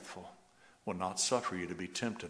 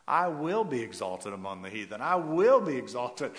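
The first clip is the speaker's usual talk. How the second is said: proclaiming loudly; 3 semitones higher, 8 dB louder than usual. Acted. Preacher repeating God's vow, triumphant. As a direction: build it up to a triumphant cry. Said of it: "I love the way the Lord says that".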